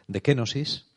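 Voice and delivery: "kenosis" said kéno-sis, stress on the first E. Shown as a demonstration. Preacher teaching the word, stress on the E of "kenosis". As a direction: lean on the E in "kenosis". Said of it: "Con acento en la E".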